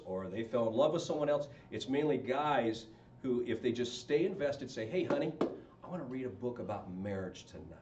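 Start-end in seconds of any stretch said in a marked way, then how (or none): 4.9-7.8 soft, low request to a wife; tender, understated invitation; gentle husband. Acted. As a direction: ask sweetly, dropping low and quiet. Husband voiced gently asking his wife.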